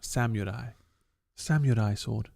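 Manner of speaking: "Samurai" said as SAM-you-die, both times; Rory Stewart's pronunciation. Retold or imitated. Repeating it for a puzzled friend, imitated posh "Samurai". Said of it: "ridiculously posh British pronunciation of everything".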